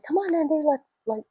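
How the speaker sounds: high, soft urging voice; coaxing the dog. Retold or imitated. Voices owner coaxing the dog away.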